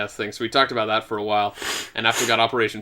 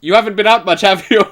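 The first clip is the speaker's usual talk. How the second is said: voiced king; 8 semitones higher, 8 dB louder than usual. Game character voiced, higher and louder.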